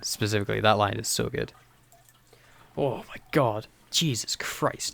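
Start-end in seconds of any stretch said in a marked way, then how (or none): 2.8-4.9 soft, slow, fading to a whisper; hushed awe. Real, not acted. Fan floored by Capaldi's speech, hushed awe. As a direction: breathe it out, overwhelmed. Awed by the speech just quoted.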